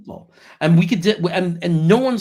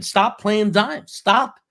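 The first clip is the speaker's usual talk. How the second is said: higher, louder mock yell of exasperation; imitated yelling; 7 semitones higher, 5 dB louder, much slower than usual. Host imitating Frankie yelling at the team, mock yell. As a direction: plead it loudly, like a fed-up yeller. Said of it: "Frankie's yelling at the, yelling and screaming".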